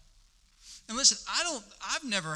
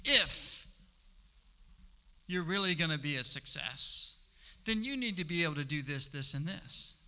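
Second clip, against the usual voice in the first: enemy's whisper of doubt. Acted. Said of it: "the enemy has said that".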